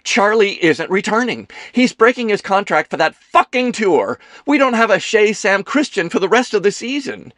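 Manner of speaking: high, loud theatrical alarm; dramatic panic. A narrator's reading. Kelsey tells Ethan about Charlie leaving, in dramatic panic. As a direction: wail the bad news dramatically. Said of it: "flipped to dramatic panic".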